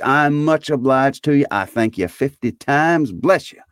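high, effusive thanks; grateful Scrooge. A narrator's reading.

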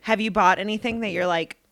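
talking through a burp; words broken by a burp. Real, not acted. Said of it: "sorry, I just burped".

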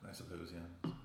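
sipping while talking; slurping. Real, not acted. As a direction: talk through a slurp of drink. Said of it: "Pardon my slurping".

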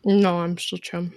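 chewing while talking; mouth full. Real, not acted. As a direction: talk through a mouthful of trail mix. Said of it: "Are you done with that?".

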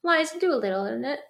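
put-on light playful Cockney accent on "Eliza Doolittle"; mock Cockney accent. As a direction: toss off the answer in a jokey Cockney accent. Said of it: "That was my Cockney accent".

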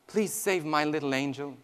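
soft, low plea to God; hushed, understated pleading; retold tearful prayer. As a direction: quietly imitate a mother's prayer. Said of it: "she prayed and she cried".

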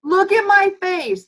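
high, loud insistent command; mock parent insisting look at me; emphatic parent. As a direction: demand the child look, pointedly. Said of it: "You gotta say".

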